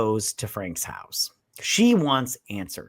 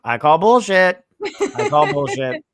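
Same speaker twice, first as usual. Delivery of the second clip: mock outraged heckle; loud scoffing; 3 semitones higher, 6 dB louder than usual. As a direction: shout it down in disbelief. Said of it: "I was like".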